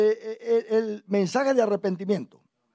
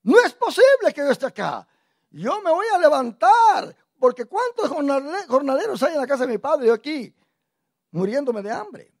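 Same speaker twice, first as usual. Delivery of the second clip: raised, determined inner speech; prodigal son resolving; 4 semitones higher, 5 dB louder than usual. Retold or imitated. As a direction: voice the son deciding to go home. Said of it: "cambió y dijo".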